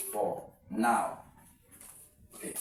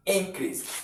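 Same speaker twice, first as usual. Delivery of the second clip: "Increase" with IN higher, falling away; stress on first syllable; 5 semitones higher than usual. Shown as a demonstration. Teacher showing the noun to exam students, stress on IN in "Increase". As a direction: punch IN in "Increase". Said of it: "you stress the first syllable".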